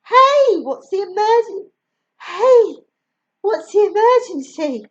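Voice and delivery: loud, high and breathless; out of breath. Acted. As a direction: gasp it out after running. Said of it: "Sadie's a bit out of breath".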